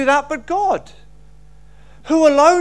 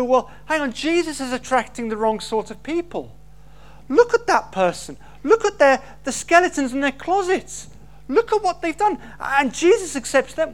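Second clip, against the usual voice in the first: indignant religious critic; 2 semitones higher than usual. Retold or imitated. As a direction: point and protest like a scandalised moralist. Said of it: "they go".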